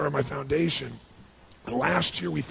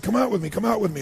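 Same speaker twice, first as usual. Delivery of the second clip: put-on higher, louder eager call to the kids; 7 semitones higher, 5 dB louder, faster than usual. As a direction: call the boys out, all eager. Calling the boys outside.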